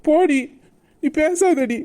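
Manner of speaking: hurt lover snapping at her; angry dismissal. Acted. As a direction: push her away in anger.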